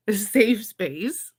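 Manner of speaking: very slow, stressing safe; slow drawn out. Real, not acted. Repeating to friends it's a safe space, slow. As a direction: stretch safe out slowly.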